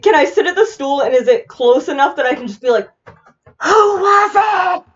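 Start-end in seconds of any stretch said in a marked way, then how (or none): 3.6-4.8 airy, slow whisper shout; whisper yelling. Shown as a demonstration. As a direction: scream it under your breath. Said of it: "like I just did. it's airy, but I'm screaming".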